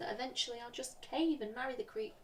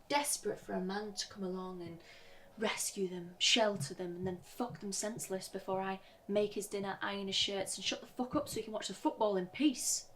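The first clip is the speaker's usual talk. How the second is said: building exasperation; 3 dB louder than usual. Acted. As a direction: start measured, build to a louder, exasperated finish. Bitter list building to outburst.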